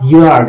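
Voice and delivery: "ইয়ার্ড" opening on a short "ই"; short initial i. Shown as a demonstration. Teacher showing Y at the word's start, short initial i. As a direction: keep the first i of "ইয়ার্ড" brief. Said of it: "এখানে হ্রস্ব ই".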